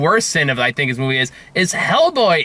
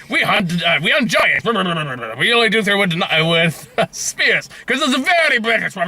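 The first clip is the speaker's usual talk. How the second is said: mock British accent. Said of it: "that's how I imagine they spoke".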